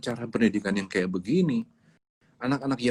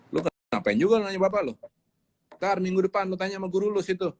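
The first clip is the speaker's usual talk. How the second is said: quick, higher brush-off; dismissive parent; 6 semitones higher, faster than usual. Retold or imitated. Parent brushing off the child's question, quick and dismissive. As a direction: wave the kid away impatiently.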